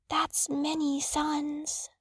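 soft, slow, understated sadness; sad little snake. A narrator's reading. Little snake to a friend who is leaving, sadly. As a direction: say it slowly and quietly, with mild sorrow. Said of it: "said the snake sadly".

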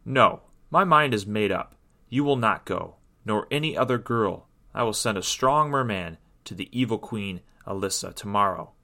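mildly annoyed, firm refusal; understated stern king. Acted. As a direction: lay down the law with a touch of irritation. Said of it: "said with an annoyed tone".

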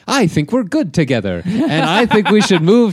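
overly sweet voice for her; mock sweet-talking boyfriend. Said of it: "He goes".

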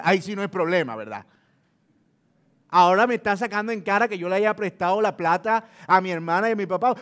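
husband hits back at wife, sarcastic. Acted. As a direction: needle her with scornful irony. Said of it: "le contesta en tono sarcástico".

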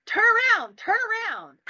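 high-pitched urgent yell; retold yell. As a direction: call it out high and urgently, as if to the driver. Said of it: "And I yell".

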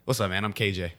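ordinary talk

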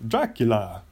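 a hint of hammy Dracula; lightly put-on Dracula accent. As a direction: say the name like a playful vampire. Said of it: "that's the most fun voice to do".

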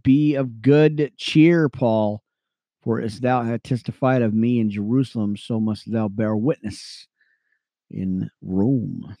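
slow, weighty Bible reading; scripture reading. Acted. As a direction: let each word land for the flock. Reads scripture aloud on air.

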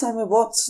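"I'm a bots" with boss said as bots; botched English. Shown as a demonstration. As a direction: fumble "bots" in place of bitch or boss. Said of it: "não consegui dizer nem bitch nem boss".

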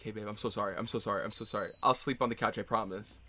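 meek apology. Pretend. Player texts partner an apology, meek and soft. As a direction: keep it small and contrite.

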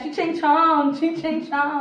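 playfully imitating Chinese sounds; mock Chinese gibberish. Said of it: "I like to pretend to speak Chinese".

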